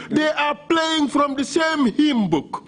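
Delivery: indignant. Real, not acted. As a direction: spell out the scorn slowly. Counsel indignant at scripted answers.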